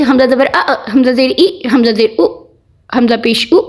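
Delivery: "अ", "ई", "उ" cut off with a jolt; jerked vowels. Shown as a demonstration. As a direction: demonstrate the wrong way, jerking "अ" and "उ" to an abrupt stop. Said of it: "ऐसे नहीं पढ़ सकते कि झटका हो".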